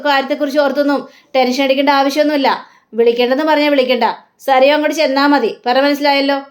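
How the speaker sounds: mildly angry manager, retold; retold anger. Manager orders Sarayu home without calling, mildly angry. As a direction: lay down the order with a touch of acted annoyance. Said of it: "ഭയങ്കര ദേഷ്യത്തോടെ പറയുകയാണ്".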